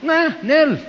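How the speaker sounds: high, dismissive tough-guy retort; mock tough retort. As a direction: brush it off like a streetwise tough. Preacher retorting mockingly, tough. (réplica burlona de tipo rudo)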